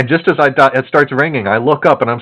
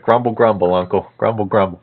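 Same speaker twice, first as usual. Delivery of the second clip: lower, put-on grumpy mutter; mock grumbling; 4 semitones lower than usual. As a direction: grouse like a cranky old man. Mock complaint aimed at his uncle.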